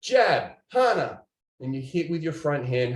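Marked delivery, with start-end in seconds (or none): 0.0-1.2 hip punched high and loud, jab, hana slower; sharp drill commands. Shown as a demonstration. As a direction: bark out the martial arts counts. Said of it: "But what if it was just".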